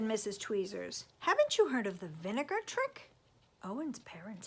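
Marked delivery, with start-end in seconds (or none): 1.2-3.1 busybody neighbor. Acted. Neighbor suggests trick.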